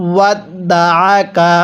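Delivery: ওয়াত দা আ কা with আ pressed in the throat; throat ain. Shown as a demonstration. Teacher shows students the correct ain sound. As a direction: squeeze the আ from the throat. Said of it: "কিভাবে পড়ব?".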